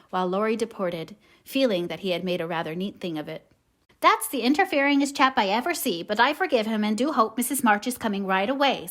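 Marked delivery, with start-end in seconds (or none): 4.0-8.9 put-on high, loud old servant voice; Hannah the servant. Hannah grumbling with relief about Laurie, loud servant voice. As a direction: chide fondly like an old housekeeper. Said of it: "said Hannah".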